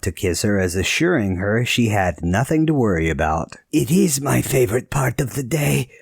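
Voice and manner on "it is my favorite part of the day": raspy voice. A narrator's reading. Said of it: "his voice raspy".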